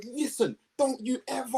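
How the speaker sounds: retold telling-off. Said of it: "I said".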